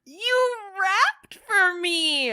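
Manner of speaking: high, loud, slow delight; excited. Real, not acted. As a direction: cheer her on. Cheering partner's rap.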